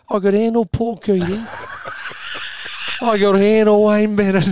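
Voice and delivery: cracking up at his own joke; laughing. Retold or imitated. Delivering the joke's punchline to co-hosts, laughing.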